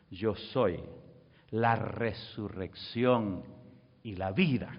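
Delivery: low, slow, spaced-out phrases; deep measured proclamation, pausing between phrases; solemn declaration. Retold or imitated. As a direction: declare it as Jesus, with weight. Voices Jesus's solemn declaration.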